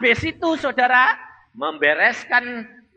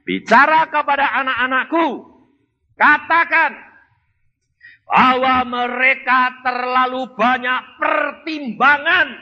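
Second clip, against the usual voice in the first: lightly voiced earnest command; voice of Jesus; 4 semitones higher, 3 dB louder than usual. Preacher voices Jesus's message.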